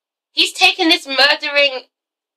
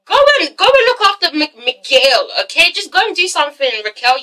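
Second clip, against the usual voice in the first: sassy dismissal; 3 semitones higher than usual. Acted. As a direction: wave her off with sass. Scolding Raquel sarcastically.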